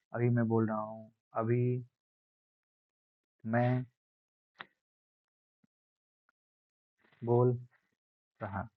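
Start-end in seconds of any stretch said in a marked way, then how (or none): 1.3-8.7 loudness demo. Shown as a demonstration. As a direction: stretch it out, rising in volume word by word. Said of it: "तो इसे ही बार-बार".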